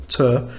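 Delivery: "ter" alone, beginning on a clear T; T pronounced. Shown as a demonstration. Teacher isolating the sound that gets skipped, T pronounced. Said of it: "So I say proprietorship".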